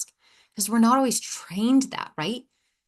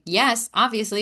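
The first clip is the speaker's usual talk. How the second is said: sassy, emphatic retort; 3 semitones higher than usual. Retold or imitated. Client answering the mentor who calls them out, sassy. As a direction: answer back with mock sass. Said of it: "I'm very sassy".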